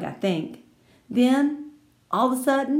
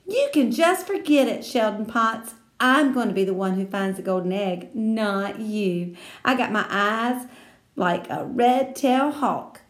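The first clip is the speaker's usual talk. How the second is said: lightly voiced girl yelling a challenge; girl shouting a challenge at a rival; mild shout; 2 semitones higher, 3 dB louder than usual. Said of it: "shouted after him".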